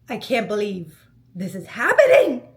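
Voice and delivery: giddy laughing disbelief. Retold or imitated. Retelling seeing the proposal setup, laughing in disbelief. Seeing the rose-covered rooftop.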